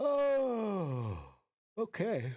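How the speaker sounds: high, drawn-out "oh" spoken mid-yawn. Speaker greets someone in the morning: yawning. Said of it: "I don't know why I'm yawning".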